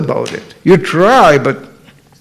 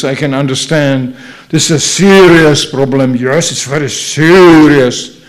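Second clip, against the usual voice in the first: mock mediator. Mock mediator's slick advice.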